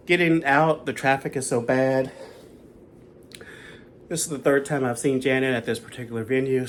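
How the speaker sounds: breathless from walking; out of breath. Real, not acted. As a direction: talk while catching breath. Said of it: "Sorry, I'm out of breath".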